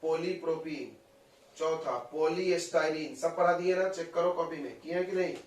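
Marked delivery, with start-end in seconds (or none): 0.0-1.0 slow repeat. Shown as a demonstration. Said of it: "अगला है".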